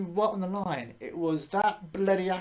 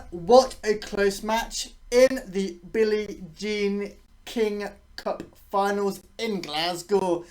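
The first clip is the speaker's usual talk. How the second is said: put-on Scottish accent; 2 semitones higher, 3 dB louder, slower than usual. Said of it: "I need to stop doing a Scottish accent".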